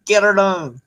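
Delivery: mild Southern twang on "Get her done"; a hint of a Southern catchphrase; Southern accent. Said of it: "They just say".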